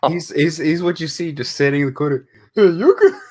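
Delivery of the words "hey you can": high, loud stoner voice. Acted. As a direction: voice a dazed guy sitting in the corner. Voicing a guy in crack house.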